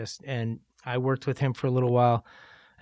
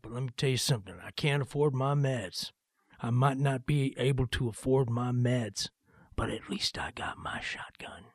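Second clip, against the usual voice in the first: put-on Southern accent; 5 dB quieter than usual. Sergeant character explains himself in the song, Southern accent. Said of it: "he's got a Southern accent".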